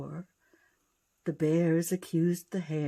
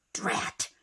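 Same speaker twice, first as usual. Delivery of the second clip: whispered curse. Acted. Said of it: "growled through her teeth".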